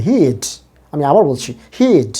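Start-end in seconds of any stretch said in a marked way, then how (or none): 0.0-0.4 হিড with a long, drawn-out ee; long vowel. Shown as a demonstration. Teacher shows learners the long sound, long vowel. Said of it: "long sound হবে". 1.8-2.1 হিড said as a drawn-out "heed"; long vowel. Shown as a demonstration. Teacher repeats the contraction for learners, long vowel. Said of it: "উচ্চারণটা এখানে long sound হবে".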